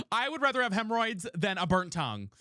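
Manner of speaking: laughing through the words. Real, not acted. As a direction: crack up while repeating it. Repeats the line, second time laughing.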